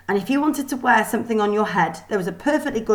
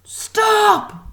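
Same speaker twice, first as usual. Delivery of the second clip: high, loud, sharp yell; stern teacher yelling stop; 14 semitones higher, 5 dB louder than usual. A narrator's reading. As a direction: halt the whole line at once. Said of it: "the Kraken yelled".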